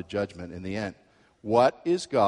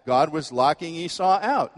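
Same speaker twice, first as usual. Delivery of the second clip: objector; 4 semitones higher, 4 dB louder than usual. Pretend. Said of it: "You say".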